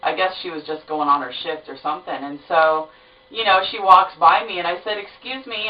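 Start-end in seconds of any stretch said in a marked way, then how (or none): 5.0-5.7 polite excuse me. Retold or imitated. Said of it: "I was being really polite".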